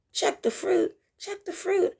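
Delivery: lilting mock spirit nudge; rising insistence. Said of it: "Spirit says".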